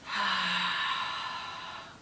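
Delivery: sigh. Shown as a demonstration. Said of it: "be loud".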